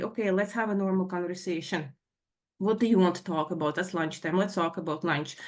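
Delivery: composed, placating concession; settling down. Retold or imitated. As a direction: answer as a mother keeping calm. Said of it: "so I'm trying to settle down".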